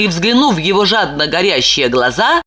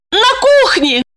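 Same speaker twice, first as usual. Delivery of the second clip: much higher flustered woman's voice; Lipochka. A narrator's reading. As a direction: blurt the answer.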